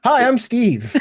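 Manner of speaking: mock high greeting. Player restarting his introduction, goofy high hi. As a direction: pop the hi up high as a joke.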